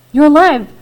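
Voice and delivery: loud, high, joyful shout of relief; boy shouts to his father that he lives, loud and high. Acted. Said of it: "I shouted".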